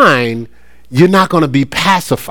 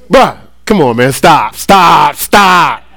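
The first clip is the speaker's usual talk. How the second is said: mock scolding; 3 dB louder, much slower than usual. Pastor scolding boy's scheme.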